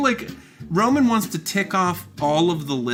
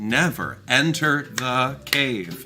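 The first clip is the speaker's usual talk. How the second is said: slow, adamant, insistent tone. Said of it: "adamantly comment".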